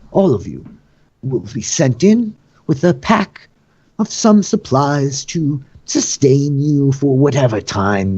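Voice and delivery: high, ceremonious master of the games; Vergen. Acted. Host announcing the proceedings to bound captives, theatrical and formal.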